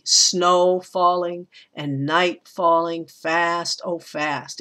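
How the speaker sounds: slow scansion, leaning on SNOW, NIGHT and FAST; trochaic stress. Shown as a demonstration. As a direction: draw out "Snow", "night", "fast", stressed first syllable then unstressed. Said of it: "It starts with a stress".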